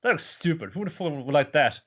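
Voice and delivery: a hint of a snotty mascot; sneering cat. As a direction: dismiss the doll with contempt. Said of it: "the cat, is like".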